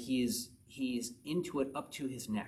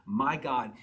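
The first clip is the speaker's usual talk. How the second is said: "My" pressed louder in "My God"; stress on My; 4 dB louder than usual. Shown as a demonstration. Preacher pointing out a personal relationship, stress on "My". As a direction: lean on "My" to make it personal.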